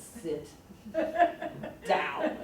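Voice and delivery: stern mother. Retold or imitated. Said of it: "your mother talk to you that".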